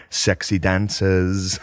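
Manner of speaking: drawn out slowly, lightly voiced eager guy; slow excited Sam. Sam slowly showing the camera his flyer. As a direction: savour each word slowly. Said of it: "he keeps coming up to the camera like".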